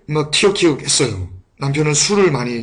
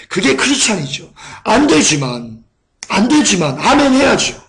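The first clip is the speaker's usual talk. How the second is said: preaching; 3 semitones higher than usual. Acted. Preacher exhorting the congregation.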